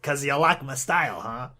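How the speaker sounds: lightly put-on mock Southern twang; mocking Southern accent. The speaker mocking the Southern guy's accent, light twang. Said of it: "he's mocking his Southern accent".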